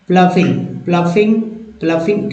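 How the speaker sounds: प्लफिंग with a clear F sound in the middle. Shown as a demonstration. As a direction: repeat प्लफिंग as "pluh-fing", teaching it. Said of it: "यू जी H को फा बोलते हैं".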